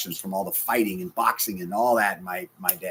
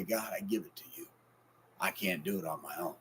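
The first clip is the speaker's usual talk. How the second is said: hushed, softer whisper of surrender; quiet prayer; 4 semitones lower, 12 dB quieter than usual. Pretend. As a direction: pray it softly to God alone.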